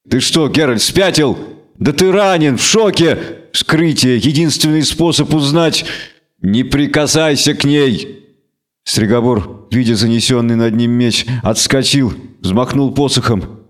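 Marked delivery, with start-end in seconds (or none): 0.1-8.2 raised, arguing, exasperated; agitated wizard. Acted. Stregobor argues with Geralt about the autopsy, agitated. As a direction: reason with a madman.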